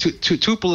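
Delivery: "tuple" with a long oo, TOO-pul; TOO-pul pronunciation. Shown as a demonstration. Guest saying how Brooklyn pronounces it, TOO-pul. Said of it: "is how they pronounce it".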